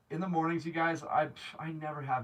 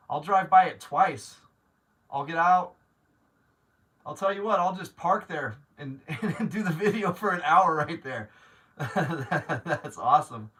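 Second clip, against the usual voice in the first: loud, laughing through the words; giddy with joy; laughing excitedly; 2 semitones higher, 8 dB louder than usual. Real, not acted. Joking to a viewer about visiting the rental, laughing.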